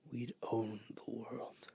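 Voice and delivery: slow, breathy dream of power; slow greedy whisper. Acted. Artilleryman whispering that they'll own the world, slow and greedy. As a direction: savor the words in a hush.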